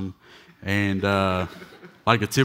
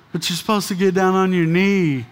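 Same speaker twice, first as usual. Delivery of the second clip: much higher, louder mock fiancée voice; squeaky protesting fiancée imitation; 10 semitones higher, 6 dB louder than usual.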